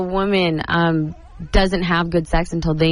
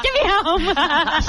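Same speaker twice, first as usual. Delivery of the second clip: desperate plea; 11 semitones higher, much slower than usual. Retold or imitated. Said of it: "I'm like".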